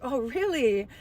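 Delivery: dry mock surprise, imitating herself; a flat, cool "really" to hide the pain; sarcastic. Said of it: "like, sarcasm".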